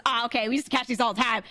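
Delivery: breezy dismissal. Retold or imitated. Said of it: "And he goes".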